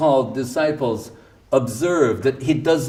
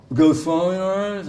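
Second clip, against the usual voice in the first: higher, calling through the door; urgent call; 6 semitones higher than usual. Retold or imitated. Devotee knocking at the guru's door, urgent call. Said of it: "And he goes".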